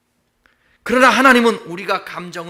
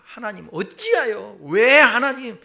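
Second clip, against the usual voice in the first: slow then a higher, louder why; protesting cry; 3 semitones higher, 3 dB louder, slower than usual. Acted. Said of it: "하박국도 고백을 하-, 하지 않습니까". (하나님께 왜냐고 항의하듯 외침)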